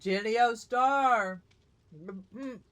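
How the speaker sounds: talking with a mouth full; mumbled through a bite of food; chewing noisily. Real, not acted. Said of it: "Sorry, I'm eating".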